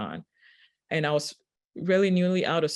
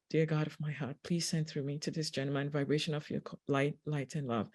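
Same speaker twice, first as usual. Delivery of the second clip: quiet inner prayer; 7 dB quieter than usual. Retold or imitated. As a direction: pray softly as if only in your head. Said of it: "I was just very quiet while doing this in my head".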